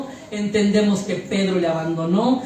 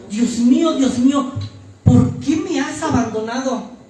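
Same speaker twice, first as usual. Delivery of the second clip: raised, louder cry of dismayed surprise; sorpresa dolida; 3 semitones higher, 3 dB louder than usual. Retold or imitated. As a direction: ask it as a stunned question. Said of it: "es una pregunta de sorpresa". (pregunta de sorpresa)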